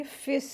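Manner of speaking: फिस with a long held s; joined into saad. Shown as a demonstration. Teacher shows fa joining saad, फिस with held s. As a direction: close फिस straight onto a sustained s. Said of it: "स्वाद में मिला के पढ़ेंगे".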